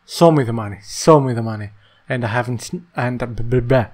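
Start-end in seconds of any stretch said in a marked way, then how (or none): 0.1-1.7 quoting Show me the money; punchy movie line quote. Retold or imitated. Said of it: "I have not seen the movie".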